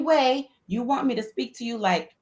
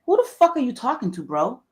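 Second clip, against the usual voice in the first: mock confrontation; 4 semitones higher than usual. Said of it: "when I hear that tone, it's like".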